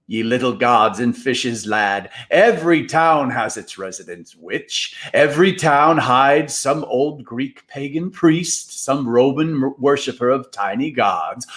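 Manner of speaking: a lightly put-on, crusty old mentor voice; old storyteller Moundshroud. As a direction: lecture the lads with relish. Moundshroud lecturing the boys.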